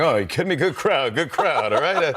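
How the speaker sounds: a hint of Rodney Dangerfield's nervous comic patter; lightly voiced stand-up bits, tugging the collar; Rodney Dangerfield impression. Recalling his childhood routine for grandma, a light Rodney voice. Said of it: "I would do Rodney impressions".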